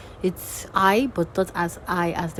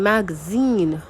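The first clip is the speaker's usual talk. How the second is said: slow "magazine", weight on the final -zine; teacher modelling end stress in "magazine"; stress demo on magazine; slower than usual. Shown as a demonstration. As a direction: lean on the last syllable of "magazine". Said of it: "So that's the stress".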